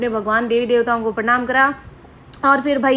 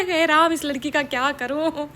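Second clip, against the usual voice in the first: a lightly voiced, slower, fond exasperated mother; 3 semitones higher than usual. Mother to her daughter, mildly exasperated. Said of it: "माँ से बोली".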